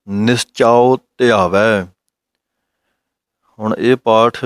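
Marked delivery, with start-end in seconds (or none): 0.1-1.8 slow, drawn scripture chanting; slow recitation. Shown as a demonstration. Teacher reciting the Gurbani line for students, slow recitation. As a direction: stretch out each word.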